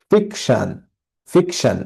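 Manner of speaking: ফিকশন with the weight on its first syllable, ফিক; stress on ফিক. Shown as a demonstration. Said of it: "এটা জোর দিয়ে বলা". (ফিকশন-এর ফিক অংশে জোর)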